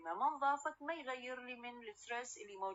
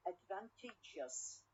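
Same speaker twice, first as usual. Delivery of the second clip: Advantageous drawn out, meant with stress on TA; stress on third syllable; 5 dB quieter, slower than usual. Shown as a demonstration. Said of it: "from the second to the third one".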